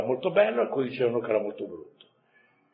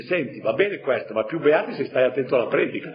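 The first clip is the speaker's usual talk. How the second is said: joking paraphrase; 2 semitones higher, 4 dB louder than usual. Pretend. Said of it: "cioè gli dice".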